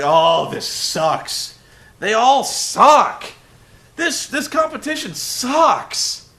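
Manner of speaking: slow, high, drawn-out whining; whiny Michael Cole. Retold or imitated. Commentator Cole griping about the show, whining high and slow. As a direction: moan it like a bored commentator dying inside. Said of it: "Cole immediately starts just dying a thousand deaths".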